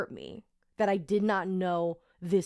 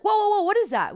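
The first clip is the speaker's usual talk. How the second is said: loud, high retold cry of disbelief; startled alarm; 12 semitones higher, 7 dB louder, faster than usual. Friends spot something in the street, startled. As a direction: act out friends stopping short in alarm.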